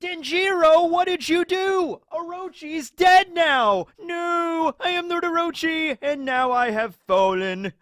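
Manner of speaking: high, loud, drawn-out cartoon villain wail; Orochi voice. Orochi laments his own death to Denjiro, high hammed-up wail. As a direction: cry out in a high, over-the-top dying voice. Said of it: "I can't use the Orochi voice".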